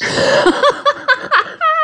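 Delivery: high, amused burst of laughter; real laugh. Real, not acted. Singer laughing over his teacher's remark, amused. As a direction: laugh at your own anecdote.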